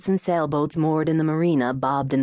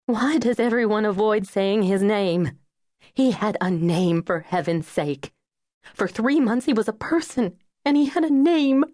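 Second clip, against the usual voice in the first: grieving mother building to a pained protest; insistent outburst; 6 semitones higher than usual. Acted. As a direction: demand the name be said, building.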